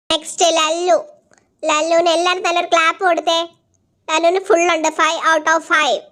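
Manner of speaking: teacher telling off pupils who failed; stern teacher. Acted. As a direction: lecture the class like a strict teacher. Teacher scolds the failing students.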